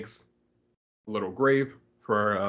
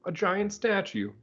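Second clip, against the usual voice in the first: high, slow, wide-eyed gasp at the statue; mock-amazed sidekick pointing out a wonder; Robin marvelling; 9 semitones higher, slower than usual. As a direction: play the awestruck sidekick, drawn out. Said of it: "Robin's like".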